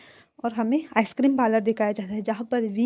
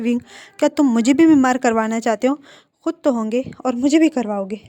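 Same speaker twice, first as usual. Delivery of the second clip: scolding; 5 dB louder than usual. Acted. Wang scolds Wing over ice cream.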